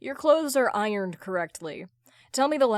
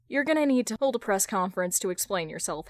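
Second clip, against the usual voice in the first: ordinary delivery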